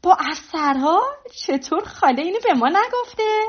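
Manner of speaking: high, loud, indignant questions; loud exclamation. Acted. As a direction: cry out the questions loudly. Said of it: "لیدا بلند گفت".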